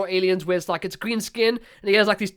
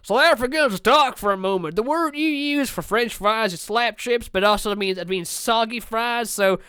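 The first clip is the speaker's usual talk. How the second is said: American tourist voice; 3 semitones higher than usual. Acted. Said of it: "talking like this".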